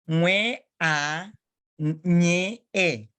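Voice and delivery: "nwe a, nye e" slowly, NW and NY each as one sound; sounded-out spelling. Shown as a demonstration. Teacher correcting a pupil's spelling, measured and segmented. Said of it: "should have been".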